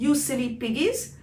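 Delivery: high, loud call to the sons. Acted. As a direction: call the children from the back. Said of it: "she called out to her three sons".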